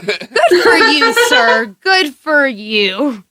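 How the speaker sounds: laughing out a slow good for you; egging him on through giggles; laughing cheer. Real, not acted. Reading the story aloud, she laughs and cheers him on.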